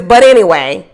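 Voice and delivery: slow, drawn-out put-on cheer; fake enthusiasm. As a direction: imitate a falsely upbeat send-off. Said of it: "this is all fake enthusiasm".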